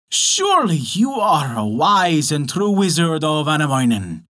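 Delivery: crafty. Acted. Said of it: "answered the old witch craftily".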